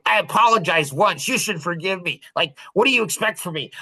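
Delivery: mildly indignant, quick and dramatic; hammed-up defensive retort; mock defensive. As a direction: imitate a defensive parent protesting. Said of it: "get all dramatic and defensive".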